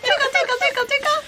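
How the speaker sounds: high, giggling tickle-tickle chant; giggly tickle attack. Real, not acted. Tickling the baby, laughing.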